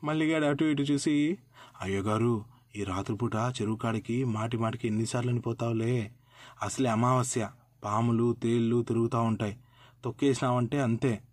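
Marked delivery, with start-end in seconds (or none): 1.8-11.2 lightly voiced crafty servant warning of snakes; scheming servant. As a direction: talk him out of it, low and sly. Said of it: "అని భయపడి ఇచ్చినాడు".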